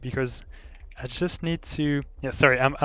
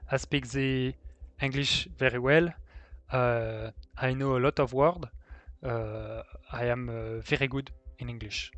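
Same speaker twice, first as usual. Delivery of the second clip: thick, hammed-up French accent in broken English; exaggerated French accent. Shown as a demonstration. Streamer showing chat a put-on French accent. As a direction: play up a French accent on purpose. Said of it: "so what, what's the French accent?".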